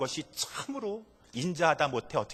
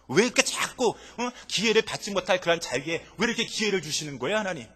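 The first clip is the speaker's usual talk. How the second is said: higher, louder, whining reproach; Jonah's exasperated protest; 6 semitones higher, 4 dB louder than usual. Acted. Jonah demanding why God gives chances, exasperated. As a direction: demand why, raised and indignant. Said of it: "라고 하는 그런 내용인 것입니다".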